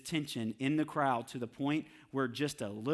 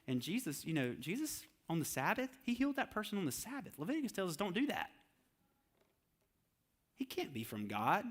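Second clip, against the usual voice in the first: scheming whisper-like aside; 3 semitones lower, 8 dB quieter than usual. Retold or imitated. Voicing leaders stirring doubt.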